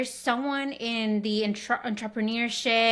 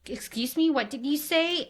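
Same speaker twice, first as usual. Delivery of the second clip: puzzled asking; 5 semitones higher than usual. Retold or imitated. Imitates store staff not understanding.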